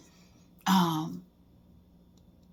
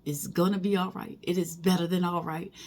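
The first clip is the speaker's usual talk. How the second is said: gentle reassurance; 6 dB quieter than usual. Pretend. God comforting Kim that all will be fine, gentle reassurance. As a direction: soothe her like a loving parent. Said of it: "for God to smile down on me and say".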